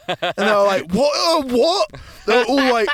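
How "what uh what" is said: high, rising disbelief; an imitated, incredulous double-take; mock shock. Stunned group reacting to his claim, mock shock.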